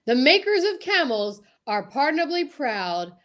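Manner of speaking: formal sponsor read; an old radio announcer reading a cigarette ad. Acted.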